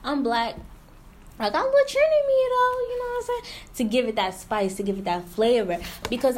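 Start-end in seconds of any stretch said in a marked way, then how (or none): 0.0-0.6 self-mocking boast. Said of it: "I be like". 1.4-3.4 much higher, fast, hammed-up squeal; mock her own bragging in a high, fast voice; playful high-pitched self-parody; hammed-up boast. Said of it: "I be like".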